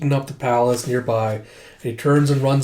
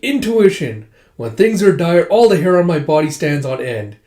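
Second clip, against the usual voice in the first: loud, raised proclamation; grand declaration; 4 semitones higher, 6 dB louder than usual. Acted. Character grandly declares his instinct.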